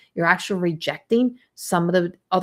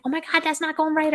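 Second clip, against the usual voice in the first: mock exasperation; 8 semitones higher than usual. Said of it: "I'm like".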